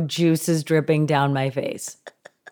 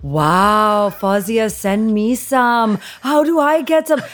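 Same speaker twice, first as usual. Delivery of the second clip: a bit higher, slowly drawn out, impressed; playing mom asking for mangoes; 4 semitones higher, slower than usual. Daughter imitating mom impressed by the mangoes. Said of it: "she was so impressed".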